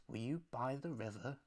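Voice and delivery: a hushed, close retelling of the guru's questions; mildly hushed, intimate questioning; really quiet. Retold or imitated. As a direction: lean in and ask it softly. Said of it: "he gets really quiet".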